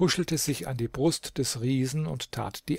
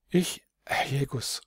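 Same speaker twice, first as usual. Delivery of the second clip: put-on stammering boy. A narrator's reading. The shy boy stammers in disbelief to the princess, startled whisper. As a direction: gasp it, then whisper in shock. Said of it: "stammelte der Bub".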